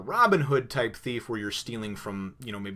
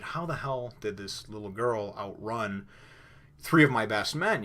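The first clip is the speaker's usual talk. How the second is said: angry captain. Retold or imitated. Angry captain Buggy, retold.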